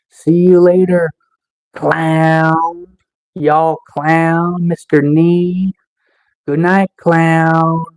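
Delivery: drawn-out mocking farewell; slow, sarcastic send-off; taunting sign-off. Real, not acted. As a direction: stretch the goodbye out as a jab.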